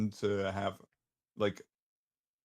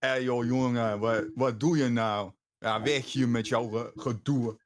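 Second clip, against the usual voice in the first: speaking Dutch; 3 dB louder than usual. Shown as a demonstration. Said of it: "speak a bit of Dutch".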